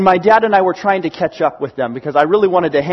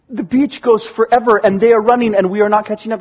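exasperated protest; 2 semitones higher, 3 dB louder than usual. Retold or imitated. Tired boy arguing with Dad, acted exasperation. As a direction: protest like a worn-out kid.

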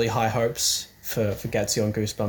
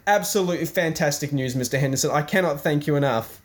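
mock gushing; 4 semitones higher than usual. Gushing thanks to uncle.

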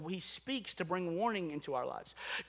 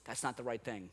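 low, soft prompting voice; gentle inner whisper; 9 semitones lower, 7 dB quieter than usual. Acted. Holy Spirit trying to warn in our heart, hushed. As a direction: drop low and soft, like a quiet nudge. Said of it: "trying to whisper in our heart".

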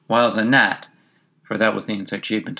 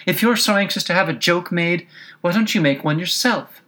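Alice voice; 8 semitones higher than usual. A narrator's reading.

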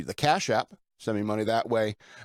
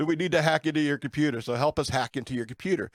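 imitated Indian accent. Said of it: "some dude in India".

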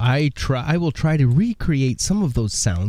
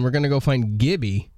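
playful whisper. Pretend. Host whispers playfully to find Gibby.

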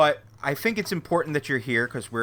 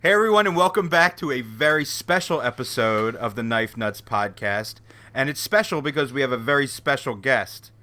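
podcast host intro. Acted.

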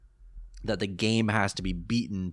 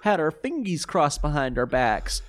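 sing-song taunting villain; smug fake apology; mocking villain voice; 4 semitones higher than usual. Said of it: "it's essentially that, like".

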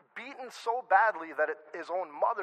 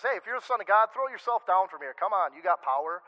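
taunting. Retold or imitated. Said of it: "taunts Jesus".

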